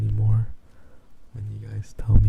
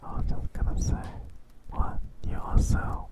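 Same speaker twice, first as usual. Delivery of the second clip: ASMR whisper; 3 dB quieter than usual. Real, not acted.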